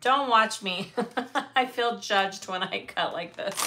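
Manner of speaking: self-conscious, giggly objection; laughing protest. Real, not acted. Crafter tells live viewers not to watch her cut, laughing. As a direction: protest through bursts of laughter.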